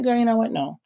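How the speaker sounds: playfully firm word to yourself; acted self-check. Checks herself in acted self-talk.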